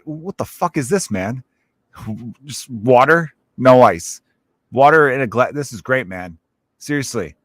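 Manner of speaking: mildly irate mock customer rant; indignant customer. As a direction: act out a put-out bar customer, lightly heated. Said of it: "you don't wanna talk like that".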